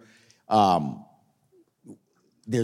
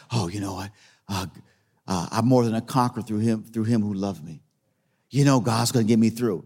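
mock pious denial; 4 semitones lower than usual. Mimicking believers who hide their hurt.

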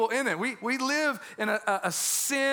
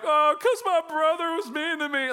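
high-pitched mock child's whine; put-on little kid voice, much higher; whining child; 8 semitones higher, 4 dB louder than usual. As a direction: imitate a kid complaining to a parent. Voices a crying child's excuse.

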